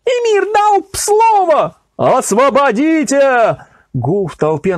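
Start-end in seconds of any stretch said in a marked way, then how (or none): 0.0-3.6 crowd shouting. A narrator's reading. Crowd demanding release of the condemned, shouting. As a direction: demand it from the guards. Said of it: "Всё громче слышались возгласы".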